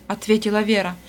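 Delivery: plain reading voice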